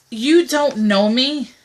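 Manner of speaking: slow, deliberate put-down; pointed retort. Pretend. Woman answering a presumptuous guy on a dating site, slow and pointed. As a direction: spell it out slowly to a stranger. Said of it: "one thing I have to say".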